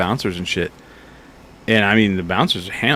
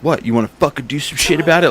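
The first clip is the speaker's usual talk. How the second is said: fast, higher mock taunt; retold challenge; 5 semitones higher, faster than usual. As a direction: goad him, fast and cocky. Retold drunk challenging a guy.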